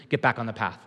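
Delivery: lightly voiced low, soft command from God; hint of a low divine voice. Preacher voicing God telling listeners to return, low and soft.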